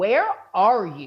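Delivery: angry, annoyed, already fed-up demanding voice. Retelling a mom's question on the phone: imitating an angry mom. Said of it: "already pissed".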